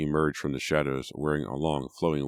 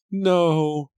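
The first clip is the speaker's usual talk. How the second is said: much higher, louder anguished shriek; shrill shriek; 14 semitones higher, 8 dB louder than usual. A narrator's reading. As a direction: scream it out in horror. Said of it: "uttered a shrill shriek".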